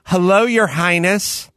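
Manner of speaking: slow, mildly mocking greeting; mean grandmother. Grandma answering her grandchild's phone call, lightly mocking and mean. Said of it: "that's how mean my grandmother was".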